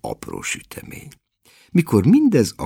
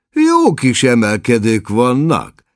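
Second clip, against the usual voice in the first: a touch of eager enthusiasm, slightly louder; lelkes; 5 semitones higher, 5 dB louder than usual. A narrator's reading. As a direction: get a little excited about the hills. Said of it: "lelkesedett be Jack".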